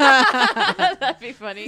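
laughing loudly, slowly. Real, not acted. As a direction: burst out laughing through it. Laughing at the idea.

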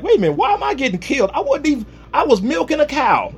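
high, fast, frantic "wait a minute"; panicked protest. Acted. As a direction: rush to talk your way out of execution. Daniel protesting his execution.

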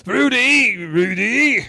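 very high sitcom-dad call; Bill Cosby. Acted. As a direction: call out the name, swooping down. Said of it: "Bill Cosby comes like the".

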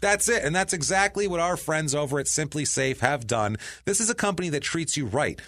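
emphatic podcast sponsor read; punchy, chatty ad pitch. Real, not acted. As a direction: sell the company with conviction. Host reads sponsor ad.

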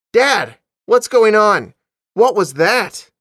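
high, loud call to Dad downstairs; alarmed shout. A narrator's reading. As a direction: shout urgent, drawn-out questions. Daughter calls out after crash.

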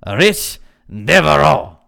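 slow, loud Cajun drawl; Cajun accent. Acted. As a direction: drag the name out in exaggerated Cajun. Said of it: "say it with a Cajun accent".

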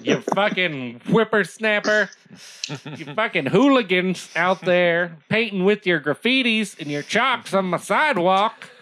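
put-on crotchety old man yelling at kids; old prospector. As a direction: shake your fist like a grumpy geezer. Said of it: "you're getting old".

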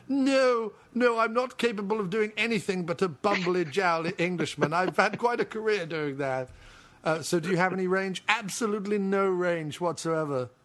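a light, bumbling English actor voice; a hint of a bumbling English actor; Hugh Bonneville impression. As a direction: play the self-deprecating bumbling Englishman. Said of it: "Hello, I'm Hugh Bonneville".

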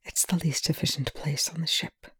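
very soft, hushed; whisper. A narrator's reading. Rush near tears, whispering to Young. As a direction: barely voice it. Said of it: "Rush whispers".

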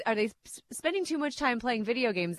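amused, on the edge of a laugh; trying not to laugh through the question. Real, not acted. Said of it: "I'm laughing as I say it".

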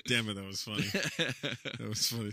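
laughing through the words; can barely get it out for laughing. Real, not acted. Cracking up at a joke.

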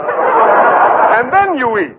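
And then you eat said very slowly, then stretched; slow, drawn out. Acted. Professor repeats, slower.

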